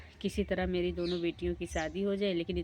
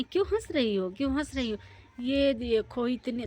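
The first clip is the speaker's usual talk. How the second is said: high, loud teasing laugh-voice; mock the daughters' looks loudly; 5 semitones higher, 4 dB louder than usual. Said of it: "खूब ज़ोर-ज़ोर से हंसने लगी". (ऊँची, ज़ोरदार चिढ़ाती आवाज़ में)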